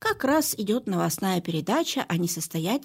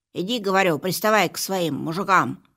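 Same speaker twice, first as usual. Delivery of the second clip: snorting dismissal; 5 dB louder than usual. Acted. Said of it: "фыркнула кошка".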